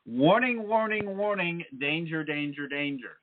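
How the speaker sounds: high-pitched robotic-style alarm call, stepping down in pitch; firm warning. Acted. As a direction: sound a repeated warning on the universe's behalf, starting high. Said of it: "The universe is very firm about this one".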